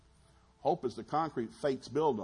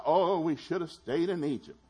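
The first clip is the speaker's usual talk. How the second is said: loud, high-pitched imitation wail; mock crying lament; 7 semitones higher, 6 dB louder than usual. Israelites regret leaving Egypt, in a mock crying lament. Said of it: "everybody begins to cry".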